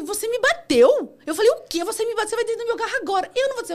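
high, loud retold outrage; outraged. Driver confronts the passenger who just punched her, outraged. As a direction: act out shocked fury, voice shooting up.

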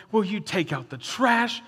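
mock-annoyed nag with a small lift; mad at spouse. Mad spouse nagging about a chore, mock irritation. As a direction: act out a mildly irritated demand. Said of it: "you're mad at your spouse going".

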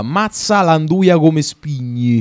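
put-on Roman accent. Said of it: "Secondo me si trova".

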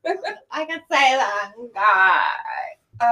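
laughing. Real, not acted. Repeating friend's line while laughing.

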